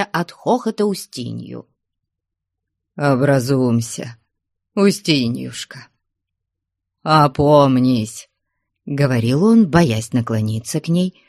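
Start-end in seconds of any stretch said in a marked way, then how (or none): 3.0-8.3 pleading. Acted. Man pleads with sobbing woman.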